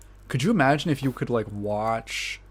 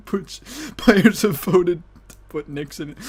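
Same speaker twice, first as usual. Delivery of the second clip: game announcer; 6 semitones higher, 3 dB louder than usual. Pretend.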